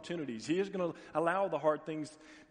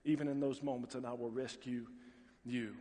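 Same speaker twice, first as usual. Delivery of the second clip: gentle divine promise; 3 semitones lower than usual. Retold or imitated. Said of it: "God says".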